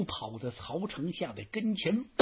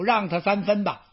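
ordinary delivery, nothing marked

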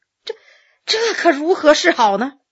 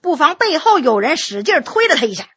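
ordinary delivery

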